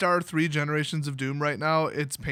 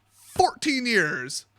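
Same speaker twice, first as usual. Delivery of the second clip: very slow, higher mock lament; dramatic answer; 4 semitones higher, much slower than usual. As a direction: stretch both words for drama. Acted answer, drawn out for effect.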